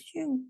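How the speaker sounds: soft spoken swoosh; little whooshing sound tracing a curve; swoosh noise. Shown as a demonstration. Teacher showing which way the slope goes, soft swoosh. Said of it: "It's going like this".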